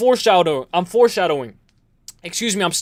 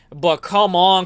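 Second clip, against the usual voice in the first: usual speaking voice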